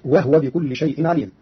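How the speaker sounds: وهو said wahwa with a still ha, slowly; Qalun's sukun on وهو, unhurried; silenced ha. Shown as a demonstration. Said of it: "بإسكان الهاء".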